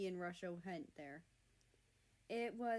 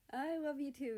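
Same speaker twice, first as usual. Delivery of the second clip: warm tone; 6 semitones higher, 4 dB louder than usual. Acted. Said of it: "a warm tone in his voice".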